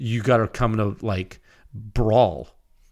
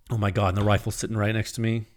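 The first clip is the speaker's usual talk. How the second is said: usual speaking voice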